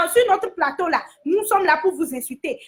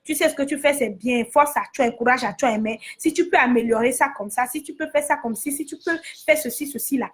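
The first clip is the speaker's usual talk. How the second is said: gentle advice; 5 semitones lower than usual. Retold or imitated. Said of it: "on dit".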